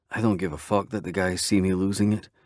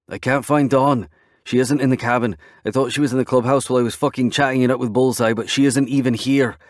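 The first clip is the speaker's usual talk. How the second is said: panicked; 5 semitones higher, 6 dB louder than usual. Acted. Panicked explanation.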